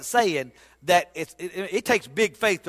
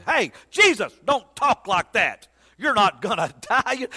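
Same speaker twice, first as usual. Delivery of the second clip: rebuking Peter. Retold or imitated. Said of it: "Peter rebuked Jesus".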